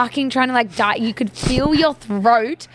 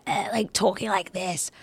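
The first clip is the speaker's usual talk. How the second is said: mock stripped-throat voice, softer and slow; imitating lost voice; 6 dB quieter than usual. Host showing friend her chili-burnt throat, imitated lost voice. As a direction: act out a voice gone from chili. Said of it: "My voice went as well".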